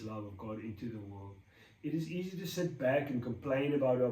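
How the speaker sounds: measured, even read-aloud voice; devotional reading. Real, not acted. Reading the brain tip to viewers, measured devotional reading. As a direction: read it out evenly, phrase by phrase.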